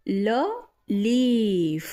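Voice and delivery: breathy whispered ल sound; whispered letter sound. Shown as a demonstration. Teacher to learners, whispering the letter sound. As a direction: whisper just the ल sound for the kids. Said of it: "teacher shows letter sound".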